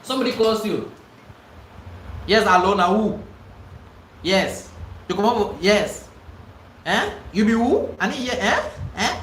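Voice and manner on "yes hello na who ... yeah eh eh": rude phone answer. Shown as a demonstration. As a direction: bark at the caller like you can't be bothered. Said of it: "What's the meaning of hello? Na who?".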